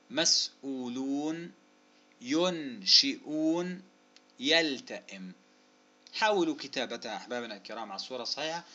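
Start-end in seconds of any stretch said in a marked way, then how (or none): 0.1-5.3 words drawn out very slowly; careful, lengthened syllables; slow dictation. Shown as a demonstration. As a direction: say each example word slowly, stretched for students.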